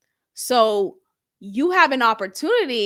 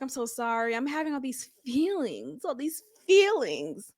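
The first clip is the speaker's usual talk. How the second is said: mild apology; 6 dB quieter than usual. Retold or imitated. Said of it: "Carrie immediately apologized. She's like".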